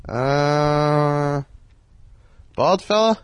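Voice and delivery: playing it for a laugh on the phone; joking put-on voice. Teller jokes to Carl Reiner in a put-on voice. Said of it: "Let me try and be funny".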